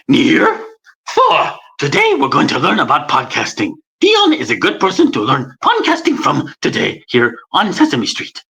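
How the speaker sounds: a hint of Grover teaching the kids; Grover impression. Shown as a demonstration. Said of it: "Grover's like".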